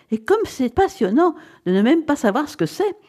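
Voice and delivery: high-pitched excited gush; exclaiming. A narrator's reading. Wife thrilled at not knowing the prize, exclaiming. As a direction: marvel aloud at the mystery. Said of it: "s'écria-t-elle".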